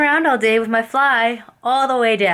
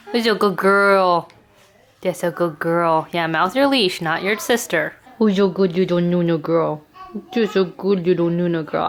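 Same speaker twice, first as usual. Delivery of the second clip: puppy voice. Real, not acted. Owner cooing at her puppy Nuna. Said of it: "My ba-, my puppy voice".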